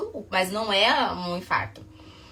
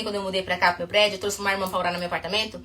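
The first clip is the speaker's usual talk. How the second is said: talking too fast; 3 semitones lower, 4 dB quieter, faster than usual. Real, not acted. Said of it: "Peraí que eu tô falando muito rápido".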